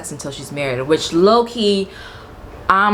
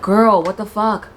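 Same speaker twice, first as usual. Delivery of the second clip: urgent hushed scolding; 5 semitones higher than usual. Pretend. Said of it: "I'd be like".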